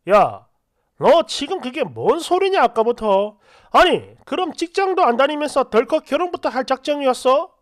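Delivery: put-on a touch of an incredulous boyfriend scolding; imitating the boyfriend's exasperated rebuke; retold angry boyfriend. Boyfriend snaps back in quarrel.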